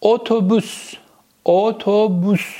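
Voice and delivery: "اتوبوس" syllable by syllable with rounded o; lips pushed forward. Shown as a demonstration. Teacher modelling Turkish o for students, "اتوبوس" slow and rounded. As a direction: say "اتوبوس" slowly, lips pouted. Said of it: "لبا میاد جلو".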